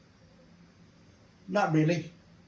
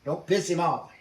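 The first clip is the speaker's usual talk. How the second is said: raised, emphatic telling-off in retelling; exasperated scolding; 3 semitones higher, 5 dB louder than usual. Retold or imitated. Prisoners scold the aviator who may provoke troops, retold exasperation. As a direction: drum sense into him, voice rising.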